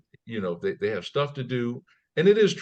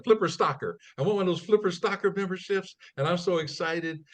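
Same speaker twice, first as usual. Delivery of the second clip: put-on insistent old lady, pitched higher; elderly lady; 7 semitones higher than usual. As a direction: lightly mimic her eager repeating. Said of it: "she kept saying".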